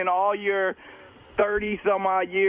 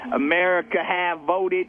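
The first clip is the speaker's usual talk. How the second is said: African American accent, lightly put on; a hint of a Black radio voice. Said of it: "I put on my, my black voice".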